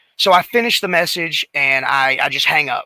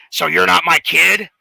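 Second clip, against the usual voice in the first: a hint of gravel, louder questioning delivery; gravelly voice imitation; 3 semitones higher, 5 dB louder than usual. Wrestler asking a stranger who called him, mock gravelly voice. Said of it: "he's got that gravelly voice".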